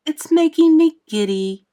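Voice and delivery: high, loud complaint; calling out. A narrator's reading. Miss Spider complains of the height, calling out plaintively. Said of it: "Miss Spider called out".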